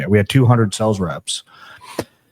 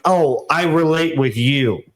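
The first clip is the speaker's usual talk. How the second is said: higher, slow, put-on modest voice; fake humility; 4 semitones higher, slower than usual. Husband mocking how he downplayed himself to old friends, in slow fake humility. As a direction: pretend to fit in with old friends. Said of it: "I'm trying to be like".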